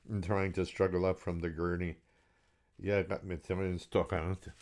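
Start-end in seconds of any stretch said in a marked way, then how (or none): 2.8-4.5 resolute Geordie. Acted. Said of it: "changing my tone to one of resolve".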